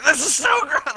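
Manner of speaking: high-pitched hammed-up squeal of disgust; retold scream. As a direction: re-enact screaming in disgust, volume held back. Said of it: "I'm just screaming".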